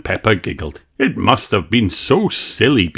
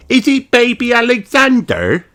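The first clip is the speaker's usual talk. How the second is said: put-on high child question; asking; 4 dB louder than usual. A narrator's reading. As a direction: ask like a curious small girl. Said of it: "she asked".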